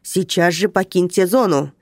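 командный тон; прикажи коротко; скомандовал. Acted. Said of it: "скомандовал он". (начальник командует нарушителю)

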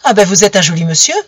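loud, fast, angry cry near tears; tearful cry. Acted. Camille accusing Romain, crying out in tears. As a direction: hurl it at him, hurt and furious. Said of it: "Elle cria, les larmes aux yeux".

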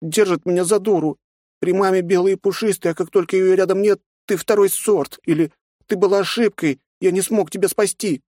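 put-on high girl's voice, hurt complaint; a little girl pouring out her hurt; hurt young girl. A narrator's reading. Nastya complains to aunt about father.

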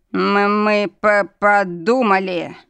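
slow, halting, stammering fear; bleating fearfully. Acted. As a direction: stammer it out, terrified. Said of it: "проблеял он".

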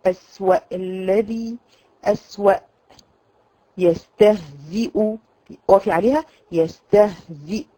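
أسوأ and يستهزئ ending on a held glottal stop; وقف على الهمزة; hamza at pause. Shown as a demonstration. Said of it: "اذا وقفتي عليها".

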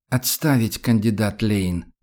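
crisp confident military order; sharp command. Acted. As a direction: bark it like a drill officer. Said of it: "неожиданно резким и уверенным тоном команда".

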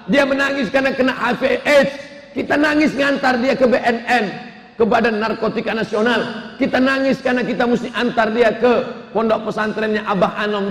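firm father lecturing his crying wife. Acted. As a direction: lay it down firmly to the wife. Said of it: "akhirnya si bapak tegas".

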